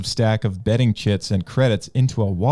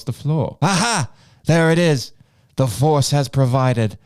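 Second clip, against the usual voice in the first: Obi-Wan. Acted. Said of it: "Obi-Wan".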